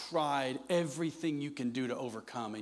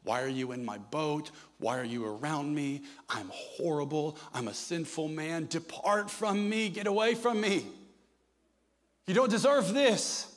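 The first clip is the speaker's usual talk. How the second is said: a broken man on his knees pushing Jesus away; whispered shame building to a desperate outcry; Peter's fearful plea. Retold or imitated. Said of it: "He falls on his knees".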